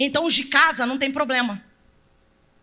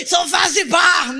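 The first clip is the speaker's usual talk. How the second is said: mock proud shout; 3 semitones higher, 5 dB louder than usual. Mocking a proud congregant answer.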